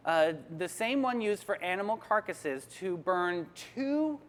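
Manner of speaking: slow, measured news delivery; news read. Acted.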